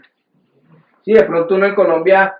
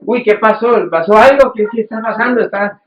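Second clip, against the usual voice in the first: susto imitado; 4 semitones higher than usual. Retold or imitated. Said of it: "se asusta uno y dice".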